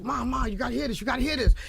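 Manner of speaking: put-on a kid begging his mom to listen; excited son. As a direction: son calling mom to hear his song, eager rising shout. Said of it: "he's like".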